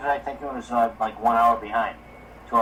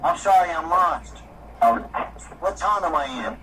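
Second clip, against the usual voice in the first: lost traveler asking; 4 semitones higher than usual. Shown as a demonstration. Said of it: "say it like this".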